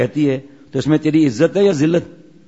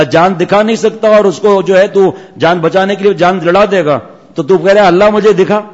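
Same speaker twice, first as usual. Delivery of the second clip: rising rebuke; 4 semitones higher, 4 dB louder than usual. Retold or imitated. Sheikh rebukes questioner.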